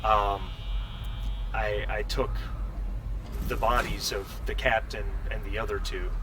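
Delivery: hesitant, subdued account with long gaps; lightly voiced android. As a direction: explain haltingly, as a puzzled synthetic person. Leslie explains the cryotubes.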